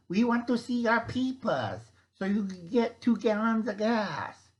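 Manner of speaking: high, loud hammed-up German official demanding papers; bad German accent. Official demanding ID for gas rations, in a bad German accent. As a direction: bark it like a cartoon German bureaucrat. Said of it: "a really bad German impression".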